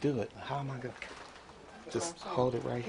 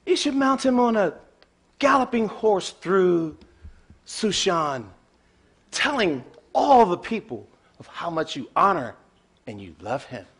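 eager; 7 dB louder than usual. Acted. Haman eagerly advising king.

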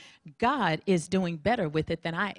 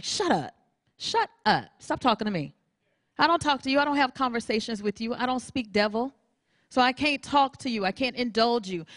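firm rebuke; 4 semitones higher than usual. Retold or imitated. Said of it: "I'm like".

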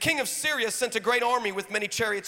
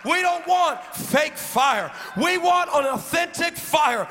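preacher praying over the church, building to shouts; fervent prayer. Real, not acted. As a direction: lead the prayer, rising into declarations. Leads a prayer.

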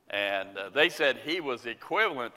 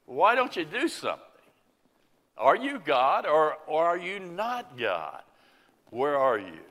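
raised, pressing questions at God; anguished plea; 3 semitones higher than usual. Acted. Believer crying out to God, raised and pleading. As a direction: demand an answer from heaven.

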